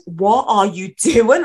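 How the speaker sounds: drawn-out, disbelieving demand; incredulous challenge. Retold or imitated. Confronting a police officer at a protest, incredulous. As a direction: stretch it out as a retold challenge.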